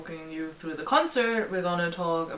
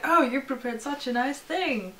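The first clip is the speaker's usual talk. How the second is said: higher, sweetly touched quote; lightly acted, higher-pitched gratitude; imitated delighted thanks; 6 semitones higher, slower than usual. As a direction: imitate a band gushing thanks to fans. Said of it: "they were like".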